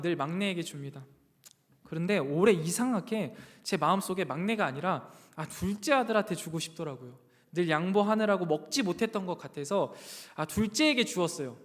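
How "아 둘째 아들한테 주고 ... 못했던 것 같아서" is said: usual speaking voice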